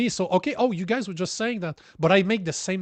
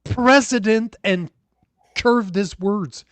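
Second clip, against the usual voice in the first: angry rant; 3 semitones higher than usual. Real, not acted. Host tells off the absent premier over his apology demand, angry rant. Irate retort to the played clip.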